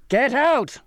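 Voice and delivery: high, furious outburst; explosive angry order; raging shout. A narrator's reading. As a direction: rage at them to leave. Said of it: "he raged".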